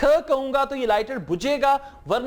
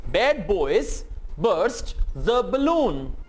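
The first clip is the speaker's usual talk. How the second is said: Bad boys burst the balloon again very slowly, lower; slow lower model; slow repeat; 3 semitones lower, much slower than usual. Shown as a demonstration. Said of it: "इन sentences को मेरे साथ-साथ repeat करें".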